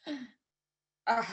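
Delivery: reenacted groan of overwhelm; retold shocked groan. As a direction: groan as if hit by bad news. Reacts to hit and run news.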